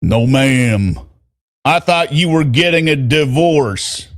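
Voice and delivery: put-on firm Southern accent. Boyfriend challenges her about divorce, firm Southern accent. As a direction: push back in a Southern drawl. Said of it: "trying to do a Southern accent".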